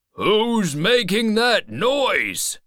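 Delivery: high, slow, drawn-out yell; shouting old man. A narrator's reading. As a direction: holler out at whoever is there. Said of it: "shouted the Welshman".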